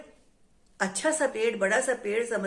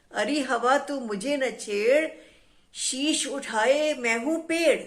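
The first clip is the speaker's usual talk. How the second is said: angry tree. Acted. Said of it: "गुस्से में वो जो है हवा पर नाराज हो गया".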